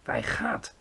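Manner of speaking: high, keen announcement; called out. A narrator's reading. Giant answering Sophie as he sets off, called out. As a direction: call out the departure. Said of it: "riep de G V R".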